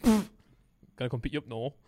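slow, drawn-out accent impression; Tommy T. Shown as a demonstration. Player offering a lift in character, slow put-on accent. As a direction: put on a regional voice and stretch it out. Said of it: "Now do Tommy T".

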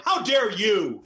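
half-voiced indignant outburst; mock yelling. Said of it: "this guy's just gonna end up yelling".

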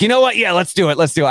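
a coach's excited go-ahead, mildly replayed; euphoric quote. Coach agreeing to the story, mildly excited. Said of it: "in a moment of, of euphoria".

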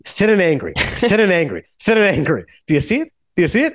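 lightly voiced manic director, repeating insistently; excitable Marty Scorsese. Director pitching his Raging Bull sequel to Albert Brooks, excitable. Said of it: "then Marty walks out".

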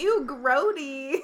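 slow, bored mock disgust; imitating an unbothered girl, slow and flat; underwhelmed ew. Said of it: "She's like".

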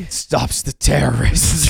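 slow, dead-serious warning; grave warning. Acted. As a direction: deliver it like a dire truth. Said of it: "you're so serious".

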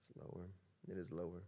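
barely voiced assent; quietly answering the preacher; hushed answer. Real, not acted.

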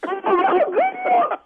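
high, drawn-out gasp of shock; stunned relief, stretched out slowly. Real, not acted. Learns it was a prank.

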